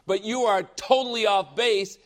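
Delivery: intense rebuttal. Shown as a demonstration. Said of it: "say it with that intensity".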